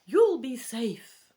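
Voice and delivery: high, loud, drawn-out owl voice; squeaky voice. Acted. Barn owl reassuring the rowers, squeaky voice. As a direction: squeak it slowly and loudly. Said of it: "he says in a squeaky voice".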